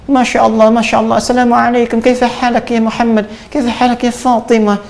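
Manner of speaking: high-pitched imitation of an Arab speaker; Arab accent. Shown as a demonstration. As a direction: greet like an Arab, pitched well up. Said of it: "Bicara Arab kayak orang Arab". (logat orang Arab bernada tinggi)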